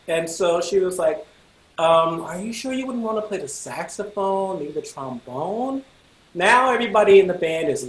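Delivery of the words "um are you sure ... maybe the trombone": tactful doubt. Retold or imitated. Director steers him to other instruments.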